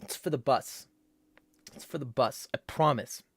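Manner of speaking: lightly voiced tweaker pleading. Tweaker explaining why he needs money, pleading tweaker voice. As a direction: mumble an excuse like a begging tweaker. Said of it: "Do a tweaker voice".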